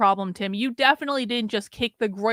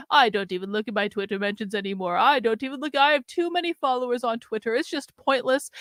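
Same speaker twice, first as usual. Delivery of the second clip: mock Tim quote. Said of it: "spent the first half of this video saying".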